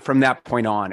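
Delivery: normal talking voice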